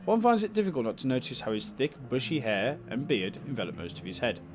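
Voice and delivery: steady storyteller read of the scene; calm even narration voice; story narration. A narrator's reading. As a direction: narrate the room like a novel. Reads game narration aloud.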